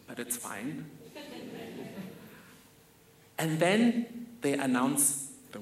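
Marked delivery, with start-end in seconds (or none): 0.1-0.9 soft, rising brush-off of the outfit; quietly resigned. Real, not acted. Kid shrugging off a dull outfit, soft and rising. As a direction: let it go softly, hopeful upturn.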